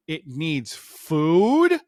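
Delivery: slow, rising disbelief; stunned slow question; incredulous echo. Retold or imitated. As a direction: drag it out in disbelief. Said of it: "I'm like".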